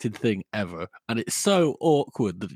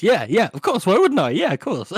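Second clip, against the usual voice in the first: flustered agreement; 5 semitones higher, 4 dB louder than usual. Retold or imitated. Man hastily agreeing to sex.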